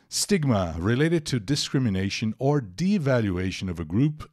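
read-aloud. Acted. Reads the English paragraph aloud.

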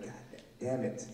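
soft, stunned, deflated curse; stunned god damn. Retold or imitated. Seeing her face at last, quiet stunned curse. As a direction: let it fall out quietly, shocked.

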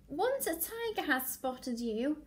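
lively, emphatic picture-book narration; story reading to children. Acted. Teacher reading a favourite animal book to class, animated storytelling. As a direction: read it to little ones, drawing out key words.

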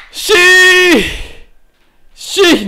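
high loud yes of victory; triumphant shout. Real, not acted. Gamer after beating the dragon, triumphant shout. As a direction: celebrate the kill.

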